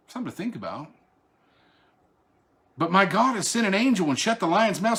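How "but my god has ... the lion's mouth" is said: Daniel's joyful reply. Acted. Daniel calling up from the den, high triumphant reply. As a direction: declare it triumphantly up to the king.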